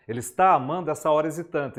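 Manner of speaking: "essa hora hesitante" rattled off quickly in plain explanation; fast explaining aside. Shown as a demonstration. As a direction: hurry through "hora hesitante" like a teacher's gloss.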